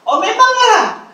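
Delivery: drawn-out high sarcastic "oh, of course"; mock agreement. Mocking a congregant's dream excuse.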